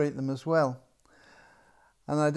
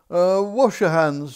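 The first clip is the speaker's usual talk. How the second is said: slow, breathy whispered order; the king's whispered reminder; 2 semitones higher, 11 dB louder than usual. Acted. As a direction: hush it out like a tired king. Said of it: "said the king".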